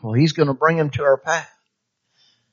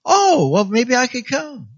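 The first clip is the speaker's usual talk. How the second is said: much higher, tentative voiced friend; lightly playing someone warming to the idea; new believer considering church, a hint of shy voice; hesitant interest; 8 semitones higher than usual.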